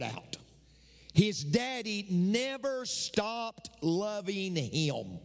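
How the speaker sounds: "never" stretched out slowly for weight; slow, drawn-out stress on "never stopped loving him"; emphatic preaching. Real, not acted. Preacher stressing father's unfailing love.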